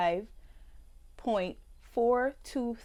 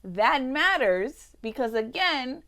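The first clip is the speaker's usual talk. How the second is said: heated outrage; 3 semitones higher, 6 dB louder than usual. Real, not acted. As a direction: build to an indignant peak. Climactic outraged reading.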